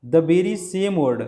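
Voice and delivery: the very same word drawn out slowly, word by word; teacher slowing down to stress very same; slow emphatic demo. Shown as a demonstration. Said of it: "यहाँ देखिए अब".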